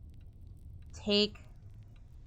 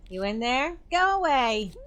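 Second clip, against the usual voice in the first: high, loud shout to go away; shouted from behind a closed door; angry yell; 5 semitones higher, 4 dB louder than usual. Acted. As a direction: yell them off through the door. Clarissa yelling through door.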